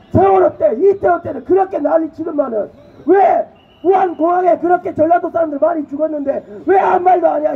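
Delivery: furious accusation at a rally; angry shout. Real, not acted. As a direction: demand an answer from the crowd.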